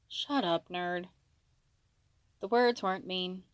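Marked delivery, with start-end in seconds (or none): 0.1-1.1 soft, affectionate jab; brotherly affection. A narrator's reading. Katsuki teases Izuku, soft with brotherly affection. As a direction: insult gently, without any meanness. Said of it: "almost said with some kind of brotherly affection".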